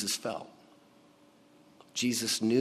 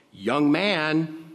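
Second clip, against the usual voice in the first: raised, higher call to the dead man; 4 semitones higher, 4 dB louder than usual. Acted. Jesus addressing the dead young man in the coffin, a raised call.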